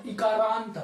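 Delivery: इकारांत said firmly, first vowel held as long ee; forceful long vowel. Shown as a demonstration. Teacher showing it must be said with force, इकारांत with an emphatic long first vowel. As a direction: press on the opening vowel of इकारांत. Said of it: "जोर से बोलना पड़ेगा थोड़ा".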